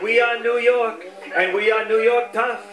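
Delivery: rhythmic, repetitive press-conference cadence; mock governor's rallying litany in a steady beat; Andrew Cuomo. Governor rallies New Yorkers at a press conference, rhythmic. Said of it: "he'd start his rhythm".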